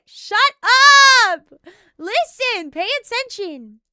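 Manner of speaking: high, theatrical anime scolding; mock-angry anime outburst; anime voice actress. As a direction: snap at the class like an anime teacher. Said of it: "she sounds like an anime voice actress".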